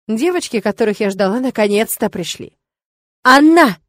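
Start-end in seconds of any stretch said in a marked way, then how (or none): 3.2-3.8 loud, high exclamation. Acted. Witch pointing at her friend to escape trouble, loud exclamation. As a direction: blurt the name out loud and high. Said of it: "воскликнула я".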